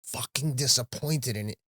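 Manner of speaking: emotional, pained confession; getting emotional. Real, not acted. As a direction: relive the disappointment, trying to hold it together. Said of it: "I'm getting emotional thinking about it now".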